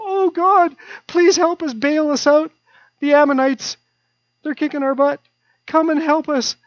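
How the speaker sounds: cornered people begging God; desperate pleading. Retold or imitated. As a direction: plead with God to bail them out. God's people begging for rescue.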